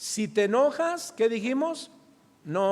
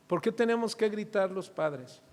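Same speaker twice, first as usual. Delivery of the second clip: normal talking voice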